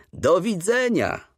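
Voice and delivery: high, slow, heartfelt farewell call; moved call. A narrator's reading. Father calls goodbye to the old teacher from the train, moved. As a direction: call out a goodbye choked with feeling. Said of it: "krzyknął mój ojciec wzruszonym głosem".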